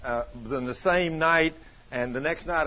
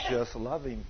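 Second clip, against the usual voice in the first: the Lord's voice; 6 semitones lower, 8 dB quieter than usual. Retold or imitated. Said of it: "And the Lord says".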